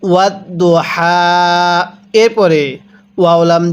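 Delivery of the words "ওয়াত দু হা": ওয়াত দু হা slow, light breath from the throat on হা; correct recitation. Shown as a demonstration. Teacher models the correct হা for students. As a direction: let air out of the throat on হা. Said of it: "তাহলে কিভাবে পড়ব?".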